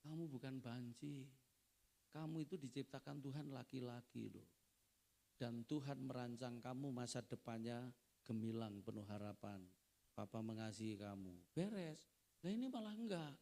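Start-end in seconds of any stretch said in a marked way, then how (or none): 0.1-11.6 understated fatherly reassurance; reassuring father. Acted. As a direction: gently voice a father affirming his child. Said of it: "harusnya papanya beri identitas".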